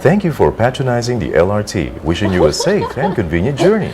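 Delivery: polished transit announcement voice; formal station announcer with swooping intonation; train announcer. Shown as a demonstration. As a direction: announce it to riders like the train line's recording. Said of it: "the guy who says".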